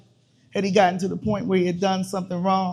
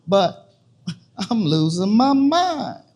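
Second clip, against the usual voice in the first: bitter laugh; 4 dB louder, slower than usual. Acted. Laughs at her own breaking mind.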